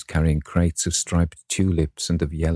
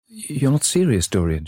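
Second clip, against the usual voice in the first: murmured plea; 9 semitones higher than usual. A narrator's reading. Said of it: "she murmured".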